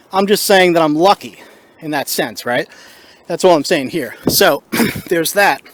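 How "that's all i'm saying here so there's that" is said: out of breath. Real, not acted. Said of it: "Sorry, I'm out of breath here".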